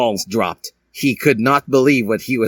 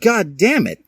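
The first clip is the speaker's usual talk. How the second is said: swearing; 11 semitones higher than usual. Acted. Professor Skellington swearing at the news, in a high squeaky voice. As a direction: curse it out in a squeaky teacher voice. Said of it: "he swore".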